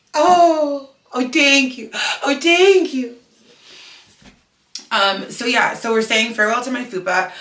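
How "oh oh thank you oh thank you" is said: high, loud cooing thanks; pet talk. Real, not acted. Owner thanking her dog Rico Suave, high baby-talk. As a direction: gush to a little dog, pitched way up.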